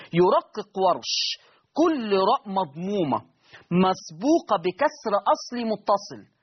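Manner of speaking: slow, word-by-word rule dictation; dictating a rule. Shown as a demonstration. Teacher to students, dictating the Warsh rule slowly.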